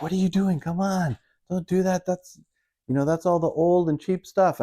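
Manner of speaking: high mock wife voice, scolding. Wife rushing over to stop him at the markdown rack, high and scolding. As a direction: squeak it out like a flustered wife.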